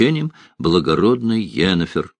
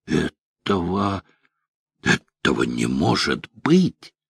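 stunned disbelief; 3 dB quieter, slower than usual. A narrator's reading. Bogold stunned at the sight.

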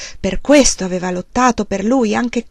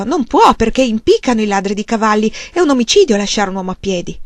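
frantic protest; 5 dB louder than usual. Acted. Wife protests frantically to her husband, louder. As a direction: insist in alarm.

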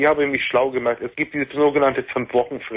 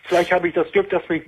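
desperate, pitch raised; real despair; 5 semitones higher than usual. Real, not acted. Caller confides her worst days to the host, in real despair. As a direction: plead from real despair, higher than usual.

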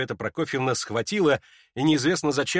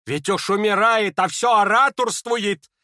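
a touch louder, higher exclamation; exclaiming; 8 semitones higher, 6 dB louder, slower than usual. Acted. Lizaveta over the coughing Ippolit, exclaiming in dismay. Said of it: "воскликнула Лизавета Прокофьевна".

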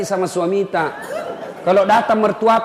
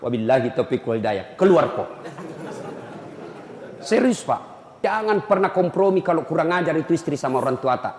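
normal talking voice

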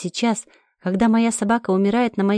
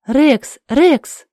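loud, higher desperate calls of the dog's name; panicked cry to a dying dog; calling out in alarm; 5 semitones higher, 6 dB louder than usual. Acted. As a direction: shout his name as he collapses. Dog collapses, she calls out.

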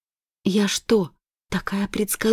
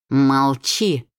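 shrieking; 4 semitones lower than usual. Acted. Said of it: "взвизгивает она".

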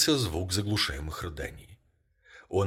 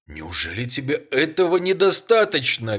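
higher and louder, a furious outburst; furious exclamation; 6 semitones higher, 8 dB louder than usual. A narrator's reading. Husband bursts out at his wife in fury. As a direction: throw it at her in fury. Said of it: "бешено воскликнул он".

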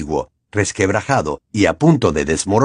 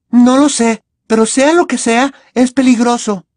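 higher, louder, firm warning; energetic Hermione; 13 semitones higher, 5 dB louder than usual. A narrator's reading. Hermione warning Harry about the arch, louder. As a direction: answer with energy. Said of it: "contestó Hermione enérgicamente".

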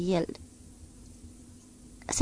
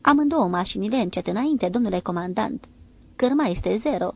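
raport ferm de marinar; 4 dB louder than usual. Acted. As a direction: repeat the order crisply, a bit louder. Timonierul raportă ordinul. (raport de timonier, ferm și tare)

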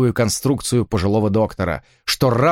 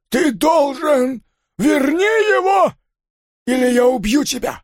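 desperate threat; slower than usual. Acted. Father threatening the hero to bring the horse back, shout. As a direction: scream the threat in panic.

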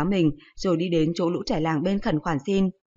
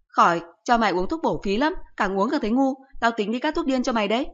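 a mother's voice, rising higher as she teases; lightly voiced teasing mother; mocking mother; 5 semitones higher than usual. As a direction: needle the son like a sharp-tongued mom. Mother mocks son, voiced higher.

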